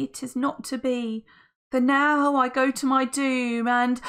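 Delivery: high, grand farewell; Friday's lament. Acted. Friday bidding Missus Lovely farewell, high and grand. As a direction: pour out a doomed love.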